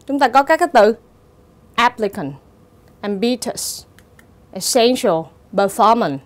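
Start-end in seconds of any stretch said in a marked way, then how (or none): 1.8-2.3 "applicant" said AP-pli-cant; first-syllable stress. Shown as a demonstration. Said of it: "dấu nhấn rơi vào âm tiết thứ nhất". 3.0-6.2 "ambitious, essential, performance", stressed on syllable two; am-BI-tious, es-SEN-tial, per-FOR-mance; second-syllable stress. Shown as a demonstration. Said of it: "thì dấu nhấn rơi vào âm tiết thứ hai".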